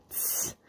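drawn-out hissed "tss"; theatrical scoff. A narrator's reading. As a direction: scoff through the teeth, for show. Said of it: "stieß Nick theatralisch".

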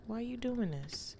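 put-on baby voice. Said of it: "Baby's like".

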